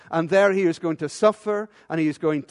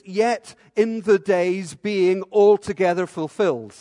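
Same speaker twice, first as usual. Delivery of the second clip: slow, word by word; slow literal reading; 5 dB louder, slower than usual. Shown as a demonstration. Preacher spelling out the literal Greek slowly. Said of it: "literally translate the Greek".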